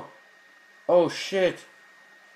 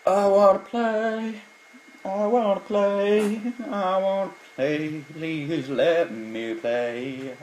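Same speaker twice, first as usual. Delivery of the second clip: put-on slow whiny childish pleading; 5 semitones higher, much slower than usual. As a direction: drag it out like a whining child.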